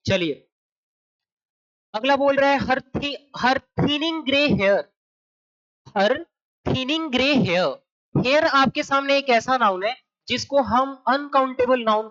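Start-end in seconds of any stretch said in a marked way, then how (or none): 2.6-4.8 very slow, word-by-word reading of the phrase. Shown as a demonstration. Teacher reading the test sentence to students, slow and deliberate. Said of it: "teacher reads sentence to class". 6.0-7.7 very slow, word-by-word reading of the phrase. Shown as a demonstration. Teacher reading the test sentence to students, slow and deliberate. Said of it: "teacher rereads the phrase".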